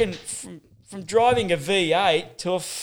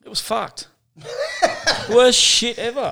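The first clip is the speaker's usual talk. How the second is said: laughing; 8 semitones higher, 5 dB louder, slower than usual. Real, not acted. Laughing at a painful memory.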